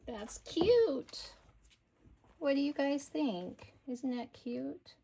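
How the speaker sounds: usual speaking voice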